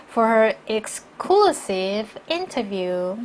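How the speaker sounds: "interview" brought out in a slow reading; measured model, weight on "interview"; stress on interview. Shown as a demonstration. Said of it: "인터뷰 더 중요한 정보이기 때문에 강조했고요". ("interview"를 강조해서 천천히)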